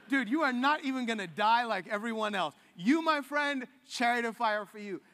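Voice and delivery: loud, excited, buddy-like God voice; God cheering Elijah on. Retold or imitated. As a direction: hype him up like a best friend. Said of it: "He's like".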